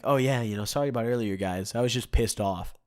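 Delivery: offhand retold apology, easing down at the end; nonchalant. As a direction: toss off an apology as no big deal. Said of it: "just so nonchalantly just says".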